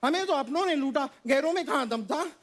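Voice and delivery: lightly acted filmi recitation; Ajay sir's film dialogue. Kid recites a parody dialogue to Ajay sir, filmi recitation. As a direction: recite it like a hero's punchline, line by line. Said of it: "आपका एक dialogue सुनाऊं".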